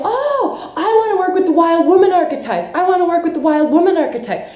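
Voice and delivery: mocking women who romanticize the wild woman; mock whine. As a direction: whine it like a starry-eyed wannabe. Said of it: "so many of us are like".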